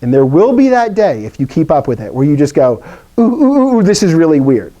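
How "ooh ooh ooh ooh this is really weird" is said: higher oohs settling into mock amazement; acted intrigued surprise. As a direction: play a student spotting something odd. Imagines student spotting an oddity.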